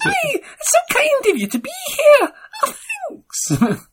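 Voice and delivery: very high, breathy-free squeaky Scottish TV host; Lorraine Kelly impression. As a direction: squeak it out like a chirpy breakfast presenter. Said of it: "Squeaky happy".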